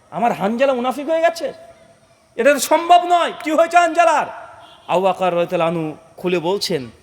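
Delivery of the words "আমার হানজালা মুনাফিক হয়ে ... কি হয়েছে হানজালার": disbelief climbing to a high exclamation; astonished questioning. Acted. The Prophet hearing Hanzala called a hypocrite, astonished. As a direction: start incredulous, then lift the pitch sharply. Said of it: "নবীও অবাক".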